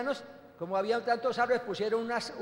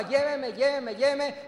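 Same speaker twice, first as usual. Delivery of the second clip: wife pressing; 3 semitones higher, slower than usual. Retold or imitated. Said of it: "así ella me presionaba".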